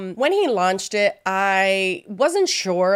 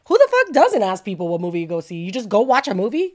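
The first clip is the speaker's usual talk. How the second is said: louder, indignant retort; outraged disbelief; 4 dB louder than usual. Retold or imitated. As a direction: fire back in disbelief at the mom. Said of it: "I'm like".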